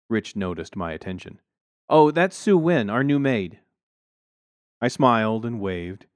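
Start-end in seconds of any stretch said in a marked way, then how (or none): 1.9-3.6 smug neighbor voice. Acted. Smug neighbor introducing maid.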